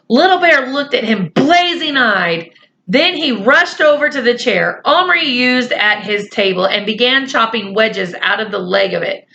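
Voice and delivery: lightly voiced children's story reading; story narration. A narrator's reading. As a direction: read the story along evenly to young listeners.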